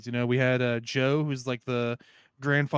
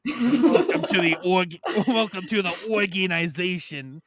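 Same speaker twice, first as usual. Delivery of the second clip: laughing quote; 3 semitones higher, 3 dB louder than usual. Acted. Joking Nick Fury quote.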